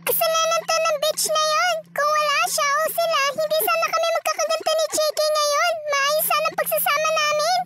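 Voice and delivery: put-on resentful girl. Fiancée cursing the rival, high and resentful. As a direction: blame the rival with spite.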